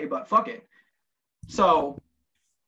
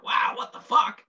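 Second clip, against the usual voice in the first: mock astonishment; 9 semitones higher, slower than usual. Retold astonished reaction.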